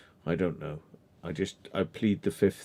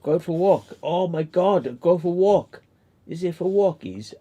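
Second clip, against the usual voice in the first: excited dog voice; 6 semitones higher, 4 dB louder than usual. Pretend. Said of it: "She looked me straight in the eyes".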